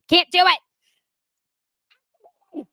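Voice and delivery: very slow, high, loud wail; drawn-out wail. Pretend. Host wails at rewatching the show, very slow and loud. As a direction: wail it out in mock despair. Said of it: "I can't do it".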